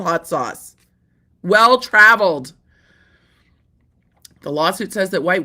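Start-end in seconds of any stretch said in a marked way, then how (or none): 1.4-2.5 Well-traveled hit louder and slow; punchy emphasis. Real, not acted. Joking about the sauce's origins, a slow punched Well-traveled. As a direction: lean hard on Well-traveled. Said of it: "it's well-traveled".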